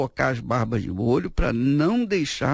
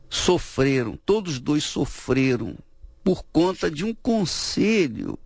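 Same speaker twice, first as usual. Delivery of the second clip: ordinary talk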